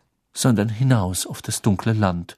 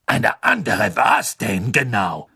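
cold; slower than usual. Acted. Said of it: "fragte Madame Maxime kalt".

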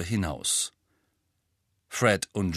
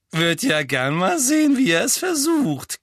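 squeaky, much higher and louder; squeaking; 12 semitones higher, 7 dB louder than usual. A narrator's reading. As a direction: squeak the taunt in a strained high voice. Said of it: "kiekste George".

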